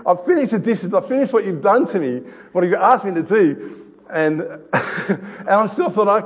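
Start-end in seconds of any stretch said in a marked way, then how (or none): 0.1-3.8 mock-tearful plea of a daughter to her dad; daughter almost in tears. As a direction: imitate a hurt little girl close to crying. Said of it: "almost in tears".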